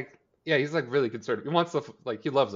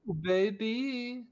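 high, long drawn-out swooning coo; mock flirty; 13 semitones higher, much slower than usual. Host teasing two characters flirting over serial killers, mock flirty. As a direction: stretch it out high, teasingly suggestive. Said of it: "there's some flirting going on".

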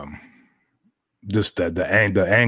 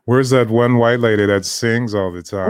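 higher, louder dopey dog voice; bulldog voice; 4 semitones higher, 5 dB louder than usual. Pretend. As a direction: voice a confused pet bulldog. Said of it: "That's a bulldog voice for you".

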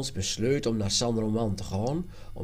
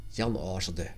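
ordinary delivery, nothing marked

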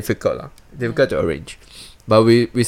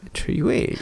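suggestive whisper; 10 semitones higher, 7 dB quieter than usual. Real, not acted. Suggestive echo of three-way.

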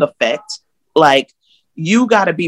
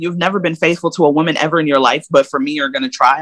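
quick sarcastic echo; faster than usual. Retold or imitated. Woman mocking her ex's promise, fast and sarcastic. She echoes his promise back.

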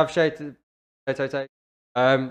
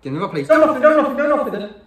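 fake calm angry parent; faster than usual. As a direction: hold it calm, then lose it. Skit, biscuits stolen by Gerrard.

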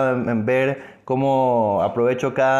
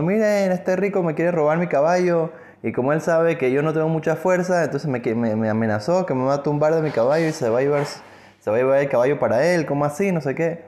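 higher, raised voice appealing to everyone; calling out to crowd; 4 semitones higher than usual. Acted. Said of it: "comienza a gritar a todo el mundo". (el pobre gritando a la gente, voz alzada)

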